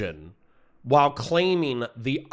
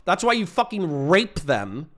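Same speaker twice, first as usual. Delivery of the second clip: pissed off; 3 semitones higher than usual. Real, not acted. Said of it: "I'm gonna be rude because you guys are pissing me off".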